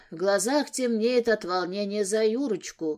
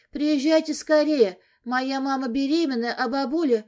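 urgent plea; 4 semitones higher than usual. Acted. Urgent call to ambulance.

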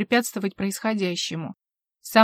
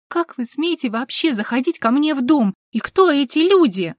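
higher, louder outraged demand; indignant outrage; 5 semitones higher, 6 dB louder than usual. A narrator's reading. Vivien confronting the intruder in her house, outraged. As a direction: demand answers, furious at the intrusion.

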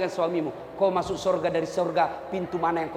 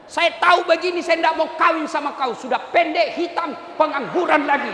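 acted wife berating her husband; scornful wife; 5 semitones higher, 3 dB louder than usual. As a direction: sneer it out at him, a bit loud. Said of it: "Tidak boleh kau hina suamimu". (istri menghina suami dengan nada mengejek)

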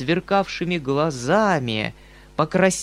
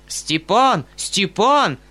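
higher, louder calling out; 5 semitones higher, 3 dB louder, much slower than usual. Acted. Uncle calling for Stepan, loud shout. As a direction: shout for the servant. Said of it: "закричал дядя".

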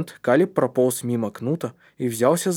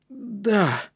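high, tense yes; worked-up, higher-pitched reply; anxious; 9 semitones higher than usual. A narrator's reading. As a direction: answer nervously in a raised voice. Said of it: "ответил тот в волнении".

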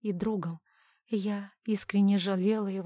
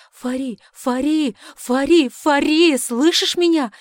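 rising, ever louder and higher panicked shouts; desperate shouting; 6 semitones higher, 13 dB louder, slower than usual. Acted. Husband screaming his dying wife's name, frantic shout. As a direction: build the cries into a frantic yell.

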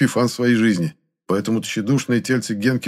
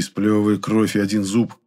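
usual speaking voice

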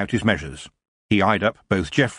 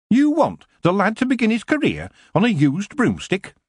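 a shopkeeper offended by the very idea; indignant dwarf; 12 semitones higher than usual. A narrator's reading. Dwarf scoffing at a used broomstick for the lad.

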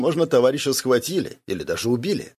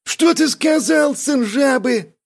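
higher, louder and slow outraged cry; angry exclamation; 14 semitones higher, 4 dB louder, slower than usual. A narrator's reading. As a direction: bristle at the insult. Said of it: "воскликнул приятель". (возмущённый выкрик, выше, громче и медленно)

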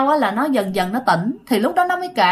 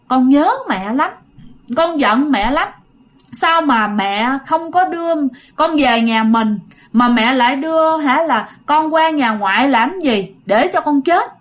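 put-on child spirit crying; 2 semitones higher than usual. Possessed mother voicing the lost girl to grandmother, mild tearful plea. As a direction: plead like a small dead girl, mildly tearful. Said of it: "người con khóc quá trời luôn".

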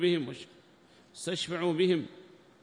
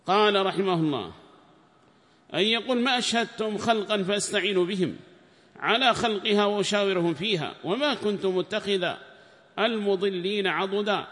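raised, higher recitation voice for the quoted book; formal text reading; 7 semitones higher, 8 dB louder than usual. Acted. Sheikh reading the tafsir book aloud to students, raised formal reading voice. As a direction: declaim the commentary text like reading to a class.

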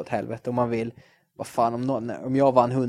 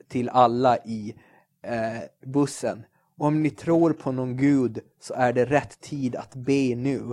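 mock headline reading; slower than usual. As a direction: spell out the headline slowly and gravely. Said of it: "då var överskriften så här". (långsam, högtidlig rubrikuppläsning)

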